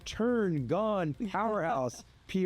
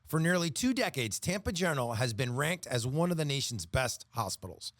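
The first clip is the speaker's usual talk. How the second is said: polished sponsor read with crisp phrasing. Real, not acted. Announcer reads a hospital sponsor message, ad read. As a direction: read it like a radio health-system spot.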